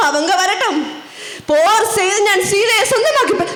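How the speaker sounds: defiant demon king; declaimed royal defiance; Ravana. Acted. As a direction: boast of victory like a stage villain. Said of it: "ഞാൻ രാവണൻ".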